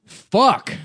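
sharp high yelled curse; sudden curse. Real, not acted. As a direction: blurt it out loud. Cursing after the sneeze.

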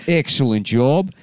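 normal talking voice

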